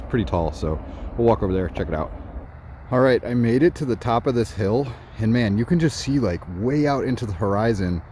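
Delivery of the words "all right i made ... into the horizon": out of breath at the hilltop; breathing hard after the climb. Real, not acted. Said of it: "I'm slightly out of breath".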